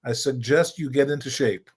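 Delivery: put-on light German accent; Klaus Glahn's German accent. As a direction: say it like a German coach. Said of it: "in his German accent".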